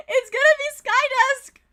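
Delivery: high, loud, worked-up exclamation; excited outcry. Real, not acted. Excited reaction to leader choice.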